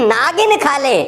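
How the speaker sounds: high, joined-up "नागिन खा ले"; नागिन as one word. Acted. Husband answering his wife about golgappas, नागिन said unbroken. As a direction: run नागिन together as the word for snake. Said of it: "मैंने बोला नागिन खा ले".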